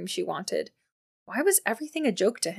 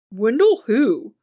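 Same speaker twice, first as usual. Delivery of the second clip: slow, louder stunned echo; stunned repetition; 2 semitones higher, 8 dB louder, much slower than usual. Acted. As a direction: repeat the name, thrown.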